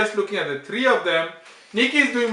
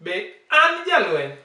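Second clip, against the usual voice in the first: AN raised high, JALWENY falling after it; 4 semitones higher than usual. Shown as a demonstration. Teacher modelling the question for her learner, high A. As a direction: lift AN, then let JALWENY drop. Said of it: "The A has to be higher".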